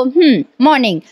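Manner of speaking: a hint of a sulky husband, short hum then a curt morning; grudging greeting, barely bothering; sulky reply. Husband still sulking answers his wife's cheerful greeting, curtly. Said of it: "आता तो जरा नाराज होऊनच बोलतोय".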